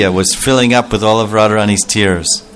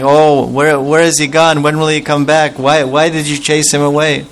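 crying; 4 semitones higher than usual. Acted. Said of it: "She's crying, crying".

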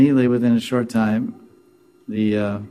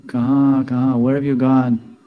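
higher-pitched pleading call; calling for lost wife; 3 semitones higher than usual. Retold or imitated. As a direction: call out for someone you miss. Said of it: "And he's saying".

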